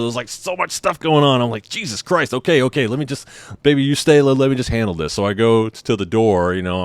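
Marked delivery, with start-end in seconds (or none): 1.7-5.1 higher, hurried self-interrupting reassurance; retold flustered exasperation. Husband telling wife he'll handle it, retold fluster. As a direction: juggle it all, mildly frazzled.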